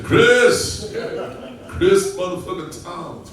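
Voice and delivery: loud, high mock yell of a name; shouting his name. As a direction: Bernie shouting at his friend. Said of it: "Bernie looked at me and said".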